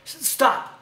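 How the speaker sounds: mimicking talk through a mouthful; mock full-mouthed mumbling. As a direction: garble it as if chewing food. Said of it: "talking with your mouth full".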